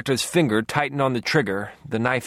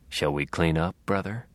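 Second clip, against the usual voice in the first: 1 menacing brother; 5 semitones lower, 4 dB quieter than usual. A narrator's reading. Killer brother's menacing invitation.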